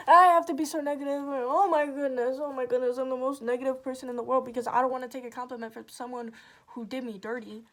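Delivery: loud, exaggerated sarcastic self-mockery; mock negativity. Echoing the accuser's complaint about negativity, loudly sarcastic. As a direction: throw the accusation back loudly, mockingly.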